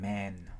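MAN with the vowel held long before the N; lengthened vowel. Shown as a demonstration. Teacher showing how man ends in N, vowel lengthened. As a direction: stretch the A in MAN, then close on N. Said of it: "kéo dài cái nguyên âm phía trước".

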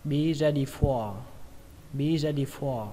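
BE READY FOR with "for" held long; drawn-out FOR. Shown as a demonstration. Teacher repeating the phrase, long FOR. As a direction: stretch "for" in "be ready for". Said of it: "các bạn kéo dài nó ra nhé".

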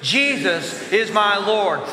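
slow, firm group declaration; bold, drawn-out lion-like chant. Shown as a demonstration. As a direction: declare it slowly like lions, leading a crowd. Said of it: "with me like lions".

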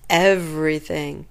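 a low, eerie ogre reply; spooky ogre voice. A narrator's reading. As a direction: say it like a menacing ogre. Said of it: "The ogre laughed".

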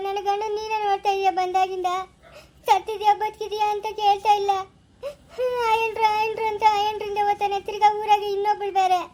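sobbing through the words, slowing on the complaint; crying plea. Acted. Mother-in-law begging her son-in-law, crying. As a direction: cry out your troubles with real tears. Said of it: "ಅಳ್ಬೇಡ ಸುಮ್ನಿರು".

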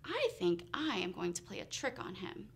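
low, quiet scheming aside; fox talking to himself. A narrator's reading. Fox plotting a trick on Bear, quietly to himself. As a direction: mull it over softly to yourself. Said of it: "Fox said to himself".

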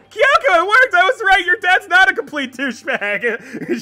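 high, loud triumphant shout; thrilled shout of victory; excited cheer. Real, not acted. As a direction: yell it out in triumph. Password works, cheering.

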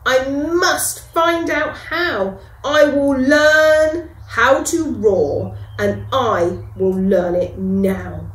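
a small mouse making up his mind; determined little mouse. Acted. Mouse vowing to learn to roar, lightly determined. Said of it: "thought the mouse".

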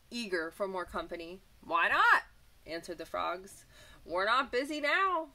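bright, lively storybook voice; reading to children. A narrator's reading. Teacher reading a picture book to children, lively. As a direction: read it like a teacher to little kids.

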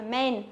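"men" with a short, narrower E; plain E sound. Shown as a demonstration. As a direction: say "men" with E as in "bed". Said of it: "đọc nó là âm E".

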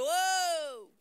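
a man who has lost everything and screams his grievance upward, pitched high; pretend raging at God. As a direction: rail at God like a betrayed believer. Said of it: "n-a urlat, n-a zbierat la Dumnezeu".

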